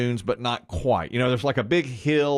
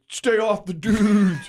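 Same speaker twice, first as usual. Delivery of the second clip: higher, slow mock neighbor line; son teasing; 9 semitones higher, 4 dB louder, slower than usual. Son on the stairs teasing dad, higher, slow. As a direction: drag out the tease. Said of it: "he goes".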